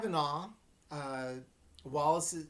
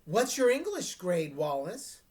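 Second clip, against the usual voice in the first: prying question; 5 dB louder than usual. Acted. Reporter Parker prying question.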